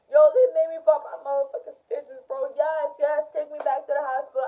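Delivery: worked-up retold yell; upset yelling. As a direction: act out a loud, distressed demand. Acting out upset cousin yelling.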